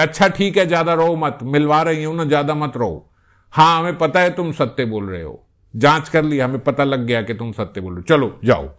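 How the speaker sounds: lightly voiced sakhi soothing Krishna; consoling sakhi. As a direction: hush a crying child, fondly. Sakhi hushes weeping Krishna.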